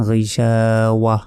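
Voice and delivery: slow "গিসাওয়া" closed on a breathed h; pausal h ending. Shown as a demonstration. Teacher demonstrating the stop, slow "গিসাওয়া" ending in h. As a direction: stretch the middle of "গিসাওয়া", end on h without t. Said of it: "শেষ অক্ষরে সাকিন দিয়ে উচ্চারণ করব".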